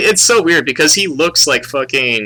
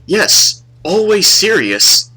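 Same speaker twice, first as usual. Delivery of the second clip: higher, slow, solemn mock Asian accent; imitated Asian accent; 7 semitones higher, 4 dB louder, much slower than usual. Student answering the girl, imitated Asian accent. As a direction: intone it slowly in an Asian accent. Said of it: "he has, like, an accent".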